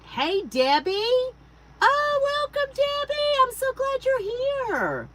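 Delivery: very high, drawn-out, delighted greeting; gushing welcome. Real, not acted. Host welcomes a viewer joining live, gushing high greeting. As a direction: squeal a slow, loud hello to a friend.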